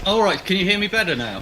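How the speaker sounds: distant echoey mic; echoey, far from the mic. Real, not acted. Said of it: "you sound very echoey".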